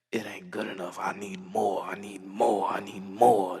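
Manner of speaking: a voiced line dips into whisper between; whispered inner voice. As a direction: breathe it like a craving you can't shake. Inner greedy voice quoted.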